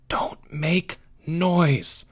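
slow, drawn-out whisper. A narrator's reading. Boy warning friends in hiding, whispering. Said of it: "whispered Timmy".

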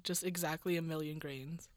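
hushed unvoiced aside; soft whispered joke. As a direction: breathe it out like a secret. Joking whisper about sand.

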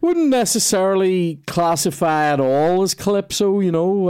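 dad lightly voiced correcting his son's music knowledge; imitating dad. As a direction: lightly play the fussy dad setting them straight. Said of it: "he goes, he goes".

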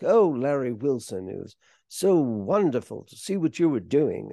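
a deliberately bad imitation of a suave old film star; lightly voiced, self-mocking Cary Grant take; hint of a classic Hollywood leading man. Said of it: "I'll do a really bad Cary Grant impression".

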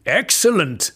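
a relieved king cheering; happy king. Acted. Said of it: "said the king happily".

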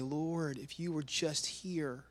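soft, drawn-out acted lament; collapsed plea. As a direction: plead slowly as if fallen at his feet. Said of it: "collapse at his feet and just say".

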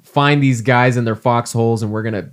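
hammed-up drill sergeant rally; rally the troops, tongue in cheek; gung-ho soldier. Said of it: "oorah, soldiers".

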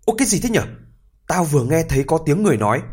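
a touch of panic at a voice; startled. Acted. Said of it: "hốt hoảng nói".

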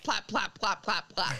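spoken plaps as a pretend fart; mock fart sound. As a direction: repeat a popping syllable like a badly faked fart. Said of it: "only he went plap".

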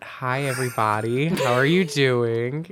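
drawn-out radio host greeting. Pretend. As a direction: greet listeners in a mock radio voice. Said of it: "Is this my, like, radio voice?".

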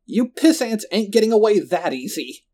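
high, threatening yell; defiant villain's holler; Roland shouting. A narrator's reading. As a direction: shout it while thrashing about. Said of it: "Roland shouted, thrashing around on the floor".

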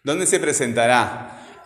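slow, marking the ending of "presentará"; future tense stressed. Shown as a demonstration. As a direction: spell out "presentará" slowly so the future is clear. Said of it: "cómo lo dirían ustedes en futuro". (futuro marcado, despacio, acentuando "presentará")

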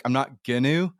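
"gonna" said as "ginnoo"; Vancouver Island pronunciation. Shown as a demonstration. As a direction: end "gonna" on an oo sound. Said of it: "Vancouver Island".

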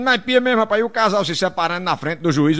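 normal talking voice

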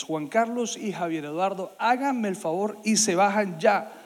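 slow, measured order; authoritative father. Retold or imitated. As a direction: imitate a dad's firm command, no shouting. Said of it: "con esa voz y con esa autoridad".

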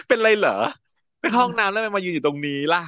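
high, puzzled mock questioning with a laugh; baffled questions. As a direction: play her totally confused. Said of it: "แพรก็คืองงเต๊กว่า". (ถามเสียงสูงแบบงงสุดๆ)

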